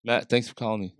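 calming voice. Retold or imitated. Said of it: "does that calming voice of his".

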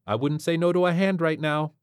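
wry space pilot; brisk pilot voice. Acted.

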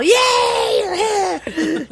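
high, loud laughing yay; kid's gleeful yell. Retold or imitated. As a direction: shout it like a kid leaping on you. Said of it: "wrap his legs around you and yell".

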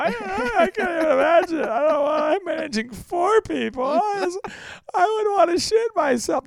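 high, wailing mock sob of a panicked manager; hammed-up blubbering, voice cracking high; mock crying. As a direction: listeners imagined crying over managing staff, high mock wail. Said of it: "Some of you are crying right now".

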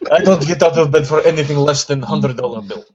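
mock Russian accent on a greedy boss; a lightly done Russian tycoon accent. Voicing the toy company boss in a Russian accent. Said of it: "Why did you make him sound Russian?".

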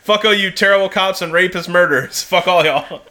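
chuckling playful cursing; laughing mock curse. Joking to Wisconsin people, laughing mock curse. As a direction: curse them out through laughter. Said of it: "laughing mock curse at Wisconsin".

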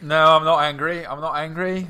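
light put-on French accent, insisting; a guest playing the foreigner in a mild French accent. Guest denies being angry to the host, light French accent. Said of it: "I'm just a foreigner".

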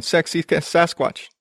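slow, stumbling attempt at a tongue twister; slowly tangled on the s sounds; tripping over words. Real, not acted. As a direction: pick carefully through the tongue twister. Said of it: "That's a tongue twister".

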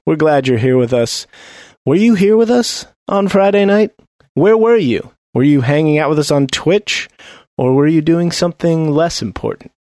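upbeat show host intro; podcast host. Acted. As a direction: welcome the listeners with energy.

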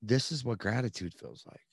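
hushed, slow dawning amazement; retold moment of stunned discovery, drawn out; awed realization. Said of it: "I remember thinking".

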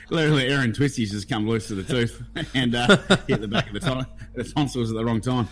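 chuckling through the story; laughing while explaining the mishap. Real, not acted. Laughing at own coughing mishap.

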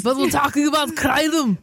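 put-on heavy Austrian accent. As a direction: talk like an Austrian strongman. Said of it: "That is your German accent".

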